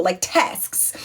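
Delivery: TASKS with the final K-S sounded; plural S pronounced. Retold or imitated. Producers correcting the host, "tasks" with every consonant. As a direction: finish "tasks" on a crisp S-K-S cluster. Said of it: "Make sure you add the S".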